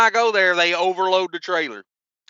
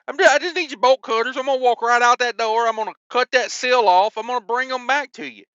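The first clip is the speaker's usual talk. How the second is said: exasperated explaining; 6 semitones higher, faster than usual. Retold or imitated. Retold plea to shipper, fast.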